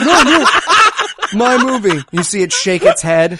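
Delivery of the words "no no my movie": mock whiny protest. Acting out Ted protesting.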